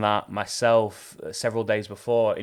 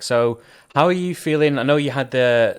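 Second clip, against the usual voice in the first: robotic voice; 3 semitones higher, 6 dB louder than usual. Real, not acted. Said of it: "your voice is, is robotic right now for me".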